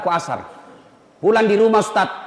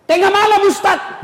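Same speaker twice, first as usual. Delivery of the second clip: higher, louder whiny excuse; mock lazy congregant; 9 semitones higher, 3 dB louder than usual. Preacher mimics a worshipper excusing himself from night prayer, whiny. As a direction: play the excuse-making worshipper.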